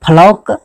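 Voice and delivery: फ्लॉक said as "phalauk"; wrong pronunciation. Shown as a demonstration. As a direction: draw out an "au" in फ्लॉक. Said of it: "नहीं पढ़ सकते हैं". (फ्लॉक को "फलौक" बोलें)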